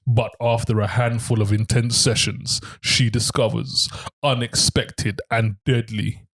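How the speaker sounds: deliberate, mildly deepened narrator voice, slowing near the end; deep voice. Pretend. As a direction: read it like a deep-voiced trailer, lightly put on. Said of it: "in a, in a deep voice".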